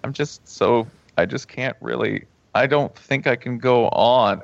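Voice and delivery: halting, mildly choked-up grief act; mock bereaved client. Grieving client confiding in the counselor, mock distraught. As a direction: pretend to struggle to finish.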